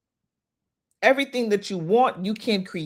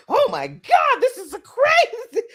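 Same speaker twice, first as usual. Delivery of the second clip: laughing mock complaint; 4 dB louder than usual. Mock complaint of being dragged.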